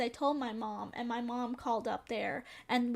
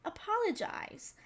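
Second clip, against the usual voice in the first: stern principal order. Retold or imitated. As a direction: lay down the law slowly. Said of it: "the principal's like".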